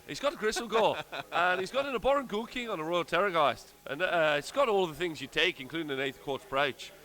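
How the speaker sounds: jokey, badly faked Irish; bad mock Irish accent. Reading Ireland's army list, mock Irish accent. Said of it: "so I'm doing Irish".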